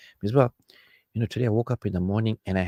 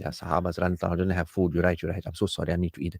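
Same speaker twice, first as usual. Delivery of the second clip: softer, lower, mock-humble apology; sheepish giving in; 4 semitones lower, 6 dB quieter than usual. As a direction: back down meekly to keep the peace.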